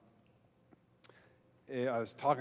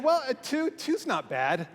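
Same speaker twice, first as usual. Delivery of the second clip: reassuring pastor; 9 semitones higher than usual. Retold or imitated. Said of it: "And I said".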